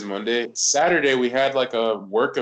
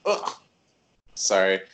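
coughing and clearing the throat; coughing fit; 2 semitones higher than usual. Real, not acted. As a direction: cough through the words. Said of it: "Sorry. If I'm coughing".

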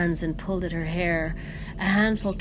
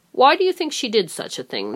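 pressing; 7 semitones higher, 8 dB louder, faster than usual. A narrator's reading. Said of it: "the old man pressed".

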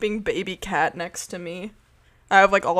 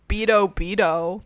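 slow, evenly spaced robot chant; lightly voiced robot; 3 dB louder than usual. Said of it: "what robots, like, sound like".

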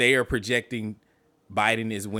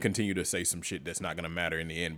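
lightly voiced long-winded debater; imitating filibustering politician; 2 semitones lower than usual. Mocking Pence's debate filibuster to a co-host, imitating a politician. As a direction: keep talking on like a stalling candidate. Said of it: "that motherfucker was out there filibustering. Just talking".

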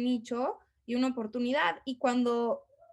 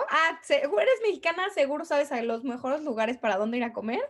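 a light mock of an eager tourist greeting; mock foreigner; 2 semitones higher, 3 dB louder than usual. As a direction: playfully imitate an excited foreigner meeting a Mexican. Imitating foreigners' stereotyped greeting.

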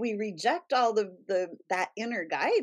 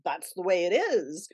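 stern mind voice; 3 semitones lower than usual. Retold or imitated. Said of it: "the mind would go like".

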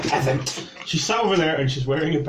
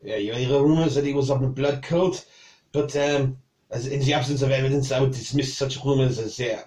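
put-on dismissive French accent, near usual pitch. Cook dismisses blood cult rumours to the knight, French accent. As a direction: wave it away in a French accent. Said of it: "annoyed that you can do that".

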